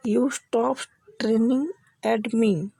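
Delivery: very slow, each word spelled out; slow teaching demo. Shown as a demonstration. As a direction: say it slowly for learners to copy. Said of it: "आज से आप English में क्या बोलेंगे". (धीमे-धीमे, साफ़ उच्चारण में)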